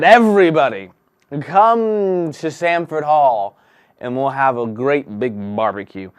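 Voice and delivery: calling out to everyone. Acted. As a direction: summon the whole town to the feast.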